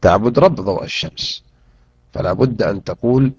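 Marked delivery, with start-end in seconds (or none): none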